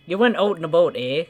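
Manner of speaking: Canadian vowels in "out and about"; mock Canadian accent. Teasing a Canadian, mock Canadian accent. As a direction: round "about" toward "a-boat", Canadian style. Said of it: "makes fun of your guys' accent".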